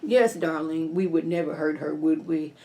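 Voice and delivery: lightly voiced smooth husband; Hunter voice. Hunter agreeing with Victoria, low and sweet. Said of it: "That's my Hunter voice".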